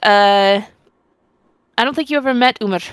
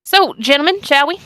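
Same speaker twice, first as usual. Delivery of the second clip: gallant invitation; 5 semitones higher than usual. Acted. In-character invitation to party.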